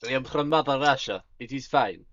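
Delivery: put-on Russian accent, matter-of-fact. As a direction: play it as a stolid Russian character. Character claims to be Russian.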